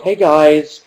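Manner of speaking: lightly voiced upbeat vlogger intro and outro; parody vlogger. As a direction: play a chirpy YouTuber slightly hammed up. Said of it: "that would be my vlog".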